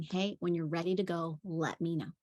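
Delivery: soft, even, unbothered repeat; calm broken record. Retold or imitated. Nanny calmly repeats to the yelling boy, soft and even. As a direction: say it softly and evenly.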